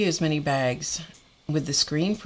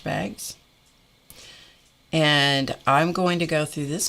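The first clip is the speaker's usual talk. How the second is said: losing control. Retold or imitated. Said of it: "I kind of lost control".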